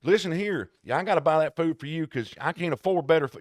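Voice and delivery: the dog griping about its food; mock dog talking back; complaining dog.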